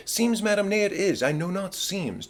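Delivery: pitched high, sharply indignant; indignant retort. Acted. Hamlet to his mother, rejecting "seems", high indignant retort. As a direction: fling the word back at her. Hamlet bristles at Gertrude's word.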